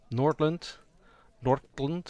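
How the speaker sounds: hard R and D in "Nordland"; touch of a Nordic accent on "Nordland". Shown as a demonstration. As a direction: say "Nordland" with a firm R and crisp D. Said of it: "hard R and D".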